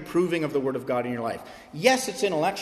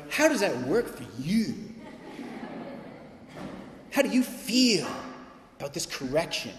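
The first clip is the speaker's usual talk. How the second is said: much higher, overly gentle pretend voice; mock timid father; 6 semitones higher than usual. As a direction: ham up a dad afraid to act. Mocking a permission-seeking father.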